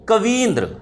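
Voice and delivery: कवींद्र said with a long stressed ई; कवींद्र articulated for students to repeat; clear pronunciation. Shown as a demonstration. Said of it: "उच्चारण कीजिए".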